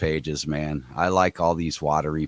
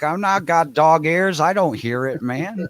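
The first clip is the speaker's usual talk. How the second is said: put-on girl's voice; 9 semitones higher, 4 dB louder than usual. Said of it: "She's like".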